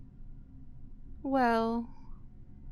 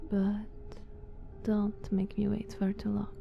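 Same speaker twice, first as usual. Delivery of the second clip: a soft, menacing whisper; threatening whisper; 4 dB quieter than usual. Acted. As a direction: whisper the warning close to their ear. Soft threat as guest sleeps.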